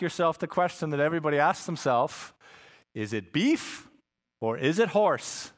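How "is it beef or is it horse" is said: puzzled shopper. Retold or imitated. Shopper wonders at ikea.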